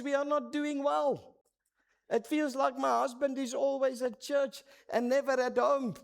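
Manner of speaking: wife telling the mentor she feels neglected, mildly tearful; retold tearful wife. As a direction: voice the wife's hurt, lightly, not full crying. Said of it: "My wife bursts into tears".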